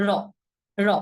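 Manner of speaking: র as an ordinary light tap; very natural. Shown as a demonstration. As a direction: say র easily, tongue forward. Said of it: "খুবই স্বাভাবিকভাবে". (স্বাভাবিক হালকা র)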